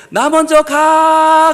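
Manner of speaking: high, drawn-out farewell shout; acted long-distance call. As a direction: holler it across the water as you row off. Calling to friend from the boat.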